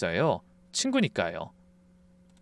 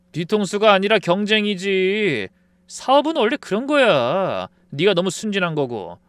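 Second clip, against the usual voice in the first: smug lecture; 6 semitones higher, 5 dB louder than usual. Acted. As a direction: talk down like a know-it-all. Friend lecturing smugly.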